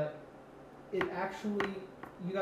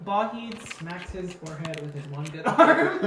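laughing narration; 7 dB louder than usual. Real, not acted.

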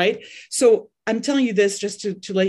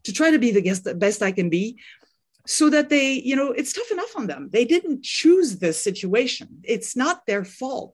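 real emotion welling up mid-talk; moved, a touch choked up; getting emotional; 4 semitones higher than usual. Real, not acted. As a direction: hold back feeling while carrying on. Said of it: "I'm sorry, I'm gonna get emotional".

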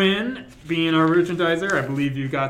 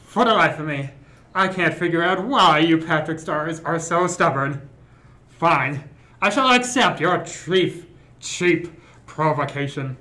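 Hannibal Lecter voice. Acted. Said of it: "do a transatlantic accent slash Hannibal Lecter voice".

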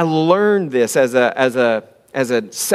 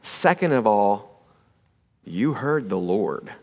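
normal talking voice

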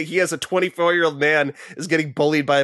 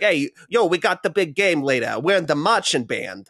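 mock Brooklyn accent; 3 semitones higher than usual. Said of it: "like, a Boston accent, or, like, a Brooklyn talk".

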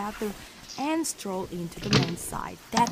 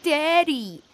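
high, drawn-out mock "Daddy"; mocking sibling's voice; 5 semitones higher than usual. Sister mocking her brother's way with Dad, high-pitched mimicry. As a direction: tease with an exaggerated pleading child's voice. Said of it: "Your voice is like".

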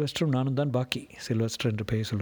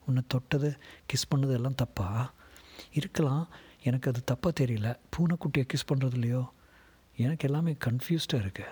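put-on young woman's voice; 3 semitones higher than usual. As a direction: voice the girl gently, half-confused. Madhumitha voiced in memory.

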